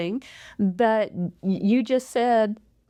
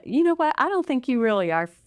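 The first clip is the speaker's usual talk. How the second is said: doubting reply. Retold or imitated. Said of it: "where it comes across as".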